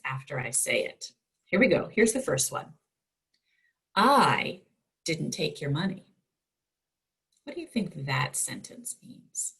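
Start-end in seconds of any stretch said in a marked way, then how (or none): 3.9-6.1 "I" lifted and punched, rest falls away; stress on I. Shown as a demonstration. Teacher models the sentence for the class, stress on "I". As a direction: hit "I" hard, then let "didn't take your money" drop. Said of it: "read the sentence with the bolded word emphasized".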